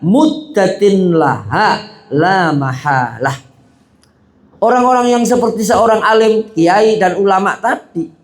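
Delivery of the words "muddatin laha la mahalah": slow, measured reading of an Arabic passage; Arabic text recitation. Acted. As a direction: intone the Arabic quote like a kitab reading.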